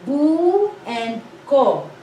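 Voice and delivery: bu and ko said slowly, one syllable at a time; slow syllable demo. Shown as a demonstration. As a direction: spell out bu, then ko. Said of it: "This one".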